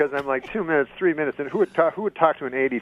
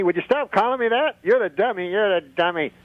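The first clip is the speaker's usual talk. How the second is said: higher dummy voice; puppet voice; 6 semitones higher than usual. Pretend. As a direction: squabble as the dummy. The speaker voices dummy Rusty.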